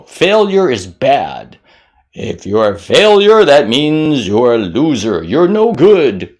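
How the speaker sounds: slow, mock-stern voicing of what people think; mock preachy verdict. Motivational speaker voicing society's view, mock stern. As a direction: lay down society's harsh verdict, slowly. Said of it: "I'm not affirming that".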